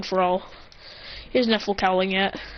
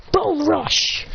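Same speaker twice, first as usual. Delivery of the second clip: higher-pitched anime move call; attack call; 6 semitones higher than usual. Acted. Hero attacking robots, higher-pitched attack call.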